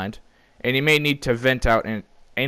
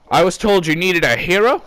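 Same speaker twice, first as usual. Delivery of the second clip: a hint of a suave hero, louder; mock heroic line; 7 semitones higher, 6 dB louder than usual. Chief arriving at the scene, lightly heroic. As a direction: deliver it like a posing action hero. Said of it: "striking a pose so perfectly sexy".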